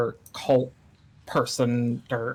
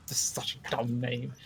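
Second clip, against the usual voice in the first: soft aside, half to oneself; mumbled under breath; 7 dB quieter than usual. Real, not acted. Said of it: "kinda mumbled that under my breath".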